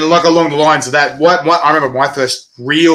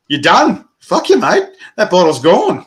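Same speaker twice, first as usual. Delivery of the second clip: put-on higher, louder cocky yell of a teen taking the dare; cocky bravado; 6 semitones higher, 3 dB louder, slower than usual. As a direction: pump yourself up and take the dare. Teen accepts hundred-dollar chili dare.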